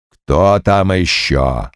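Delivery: demon bull snapping nervously; low, slow irritated growl; nervous snap. A narrator's reading. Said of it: "нервно огрызнулся он".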